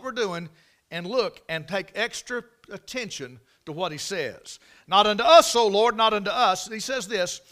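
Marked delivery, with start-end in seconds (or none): 4.9-6.7 proclaimed verse. Real, not acted. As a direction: ring out the verse. Emphatic scripture quote.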